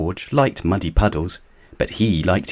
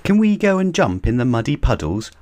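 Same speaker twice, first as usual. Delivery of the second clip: put-on higher, eager little-girl question; Peppa asking; 6 semitones higher than usual. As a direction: beg to go play. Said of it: "asked Peppa".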